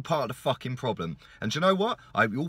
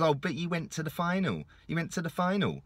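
softer, snide imitation of a smart aleck; snide mock quote; 3 semitones higher, 3 dB quieter than usual. Fan mocking a smart aleck's comment with a softer, snide mock voice. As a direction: mimic the know-it-all sneeringly. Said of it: "smart aleck comes ... and says".

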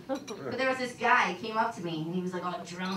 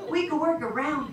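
put-on higher, louder, laughing drunk come-on; drunk guy; 7 semitones higher, 6 dB louder than usual. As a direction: play the pushy drunk who won't take no.

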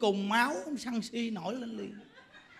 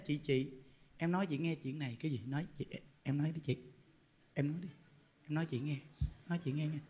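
much lower and much softer; hushed gossip; 6 semitones lower, 10 dB quieter, faster than usual. Retold or imitated. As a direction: lean in to share a secret. Gossip eagerly whispering to sister. (giọng thì thầm bàn tán)

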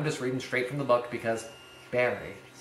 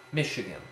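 Michigan with weight on MICH, rest falling away; one strong beat, two weak in Michigan; dactyl stress; 2 semitones lower than usual. Shown as a demonstration. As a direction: hit the first syllable of Michigan. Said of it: "a dactyl is stressed, unstressed, unstressed".

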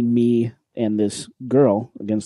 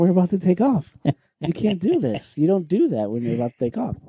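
high-pitched, exasperated objection; incredulous retold protest; 5 semitones higher than usual. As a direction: protest in mock alarm, easing down toward the end. Acting out his protest before takeoff.

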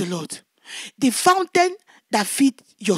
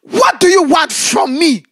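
bold proud woman; 6 dB louder than usual. Retold or imitated. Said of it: "she looked at me boldly in my eyes".

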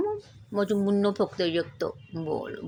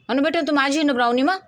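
cooing to pet; 7 semitones higher, 4 dB louder than usual. Real, not acted. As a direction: coo at your darling dog. Cooing to the dog. (कुत्रीशी उंच लाडिक आवाजात बोलणे)

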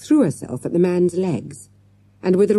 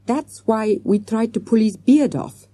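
put-on higher, mildly apologetic child's voice; meekly; 5 semitones higher than usual. A narrator's reading. Akbar owning up about the beard, mildly meek. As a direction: explain it meekly, pitched up. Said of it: "said Akbar meekly".

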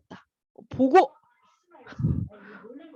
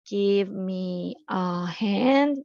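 drawn-out teacher model, each word spaced; very slow model reading; 3 semitones lower, much slower than usual. Shown as a demonstration. Teacher drilling the phrase for kids, very slow. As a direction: stretch every word for students to copy. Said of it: "도와주다라는 의미로 give a hand가 있어요".

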